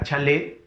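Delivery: CHALÉ with the force on LÉ; stress on final syllable. Shown as a demonstration. Teacher pointing out the tonic syllable, chalé stressed on LÉ. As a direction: lean on the last syllable of chalé. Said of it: "La fuerza de voz en la le".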